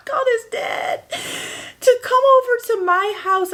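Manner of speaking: laughing through words. Real, not acted. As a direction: talk while still laughing. Laughing at the memory.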